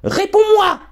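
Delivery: put-on furious girl screaming at her father; shrieking demand. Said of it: "hurla Harriet".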